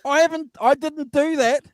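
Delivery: high squeaky chipmunk voice; helium voice. Real, not acted. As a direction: sounds like sucked helium. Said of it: "It sounds like you're on helium".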